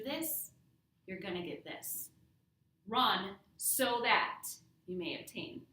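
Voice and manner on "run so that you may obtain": RUN, then SO THAT, slow and loud; stress on SO THAT. Shown as a demonstration. Teacher explains the conditional, stressing SO THAT. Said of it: "You could say so that".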